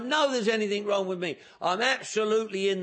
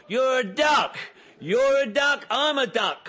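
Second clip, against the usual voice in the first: much higher and louder, yelling; loud shouted accusation; 4 semitones higher, 4 dB louder than usual. Retold or imitated. Man at the meeting yelling his verdict in his face. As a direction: hammer the word home at full volume. Man insisting, duck comparison.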